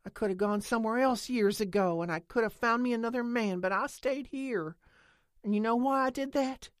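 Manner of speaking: loud and high, rising to a cry; impassioned angry tirade. A narrator's reading. Lena defends waiting for the aliens, loud and fierce. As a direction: pour it all out, fierce.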